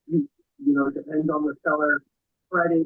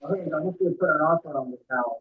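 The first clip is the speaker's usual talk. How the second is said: muffled. Real, not acted. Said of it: "It's very muffled".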